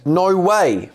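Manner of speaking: high, gushing twin sister voice; high character voice. Pretend. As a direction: squeal it like the delighted sister. Voicing the twin.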